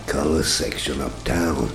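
hard-boiled narrator voice; world-weary private eye voiceover; noir detective. A narrator's reading. Hard-boiled first-person narration.

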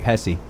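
"Pepsi" with the middle P missing, like "Pessi"; second P dropped. Retold or imitated. Echoing the restaurant joke, "Pepsi" minus the middle P. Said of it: "but not the second P".

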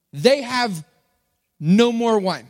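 a touch of a public announcement; lightly acted announcer, pausing mid-sentence. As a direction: announce it in two measured pieces. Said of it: "makes this announcement".

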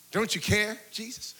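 soft appeal fading almost to nothing; hushed plea. Acted. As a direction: ask it quietly, as a private prayer. Quiet prayer voicing listeners' hurt.

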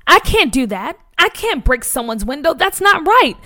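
high, rising protest that peaks on the last words; crying out. Acted. Boy crying out that he won't break a window. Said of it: "Nathaniel cried out".

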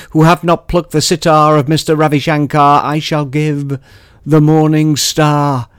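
uplifting, building poetic reading; poem recitation. Acted. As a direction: rise toward the promise of splendor. Performs poem closing.

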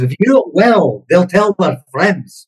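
dad's advice in a put-on Scottish accent; attempted Scottish accent. Host passes on dad's advice, mock Scottish accent. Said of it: "trying to do my best Scottish accent".

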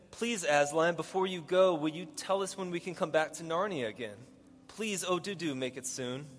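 a touch of begging in the reading; mild pleading. Acted. Lucy begs Aslan to let them return, mildly pleading.

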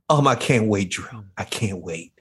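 usual speaking voice

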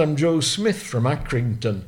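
imitated Lancashire race steward; put-on Lancashire accent; strong Lancashire accent. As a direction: introduce yourself in broad Lancashire. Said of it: "in a strong Lancashire accent".

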